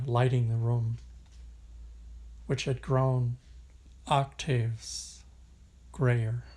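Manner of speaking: measured poetry recital, long pauses between phrases; unhurried, even poem delivery with spacious breaks; poem reading. Acted. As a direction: read it as verse, letting each line settle. Reads a poem aloud.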